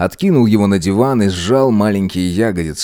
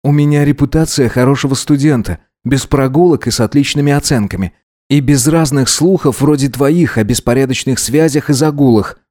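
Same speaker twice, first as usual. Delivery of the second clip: slightly raised, lightly voiced self-defence; prim good-student figure; 4 semitones higher than usual. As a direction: defend your good name. Voices Gideon defending his reputation. (сдержанно, с достоинством отличника)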